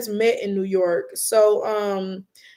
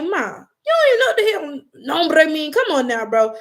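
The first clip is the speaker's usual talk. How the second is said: higher, louder exasperated scolding; exasperated to mom; 6 semitones higher, 4 dB louder than usual. Retold or imitated. Son scolding his mom over the phone order, exasperated and loud. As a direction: roll your eyes at your mom. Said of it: "I'm like".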